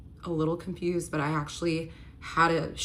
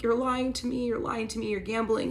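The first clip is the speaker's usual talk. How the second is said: accusing; 5 semitones higher than usual. Retold or imitated. Confronting lying boyfriend in kitchen.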